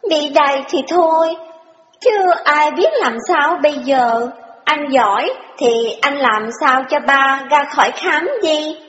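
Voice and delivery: put-on high girlish voice, retorting; pouty young girl. Sister retorts that brother is jealous, high and pouty. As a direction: snap back like a spoiled little sister.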